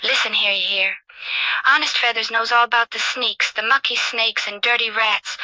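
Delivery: lightly voiced cocky British street character; lightly played watchdog, warning off troublemakers; streetwise Ozzy Ostrich. Plays streetwise ostrich Ozzy, threatening enemies.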